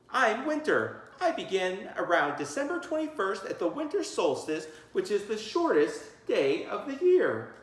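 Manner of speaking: put-on a kid announcing his season; child actor. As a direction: recite your part like a kid on stage. Child playing winter in skit.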